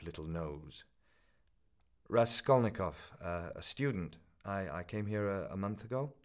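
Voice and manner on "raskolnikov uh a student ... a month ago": put-on nervous stammering young man; hurried stammer. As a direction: rush it out, stumbling. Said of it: "made haste to mutter".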